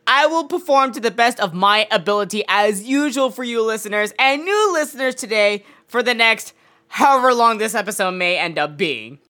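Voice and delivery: usual speaking voice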